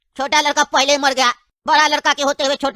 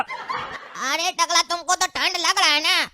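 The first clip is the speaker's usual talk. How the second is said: laughing mockery; 6 dB quieter, slower than usual. Mocking friend with bad news.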